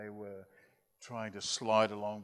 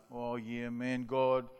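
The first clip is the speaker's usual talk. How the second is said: put-on boys' pleading prayer; 7 dB louder than usual. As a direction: start casual, then plead loudly against shame. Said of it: "And the boys are".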